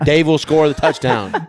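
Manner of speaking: hammed-up pushy dad on the sidelines; pushy sports parent. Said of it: "All the parents are like".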